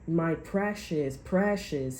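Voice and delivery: slow, lightly voiced hissing creature; a light hint of a covetous creature; Smeagol. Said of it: "Don't be like Smeagol".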